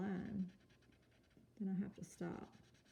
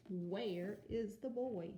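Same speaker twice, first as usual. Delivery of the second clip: slow model reading; much slower than usual. Shown as a demonstration. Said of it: "slow model reading".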